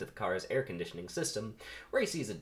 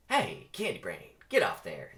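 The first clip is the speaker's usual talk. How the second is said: The speaker's voice; 3 semitones lower, 3 dB louder than usual. Acted. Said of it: "This is, this is him".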